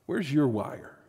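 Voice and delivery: lightly voiced nagging conscience, drawn out and soft; inner voice. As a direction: pose it slowly and quietly, like a searching inner voice. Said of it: "I heard this voice".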